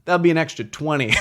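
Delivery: quoted through a laughing shout; laughing mock shout; laughing quote. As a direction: blurt the price while cracking up. Guy on phone quoted, laughing.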